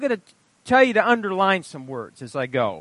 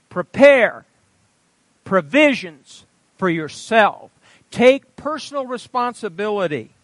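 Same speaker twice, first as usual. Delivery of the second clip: commanding; 2 semitones higher, 5 dB louder than usual. Acted. God telling the church to prepare, firm and loud. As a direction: order them to get ready.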